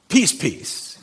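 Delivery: "peace, peace" doubled, each word punched with a falling tune; exclamation-point emphasis. Shown as a demonstration. Preacher shows how Hebrew emphasizes a word, doubling "peace, peace" emphatically. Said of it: "exclamation point".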